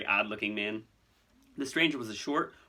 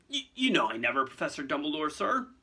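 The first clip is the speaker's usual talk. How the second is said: stammering plea, rising high at the end; imploring; 4 semitones higher than usual. Acted. Hagrid begging Dumbledore to vouch for him, imploring. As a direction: plead with a respected superior. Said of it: "looking imploringly at Dumbledore".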